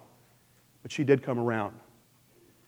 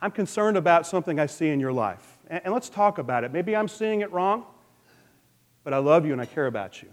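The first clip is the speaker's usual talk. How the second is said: soft, caring approach; very gentle; 5 dB quieter than usual. Shown as a demonstration. Showing how to confront a struggling brother, very gently. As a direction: broach it gently, without judgment. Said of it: "and very gently say".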